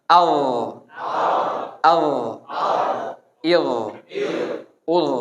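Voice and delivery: short syllables with a heavy dh; dho drill. Shown as a demonstration. Teacher drills the class on dho. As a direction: clip each syllable, heavy and full. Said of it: "Sekarang dho dulu ya".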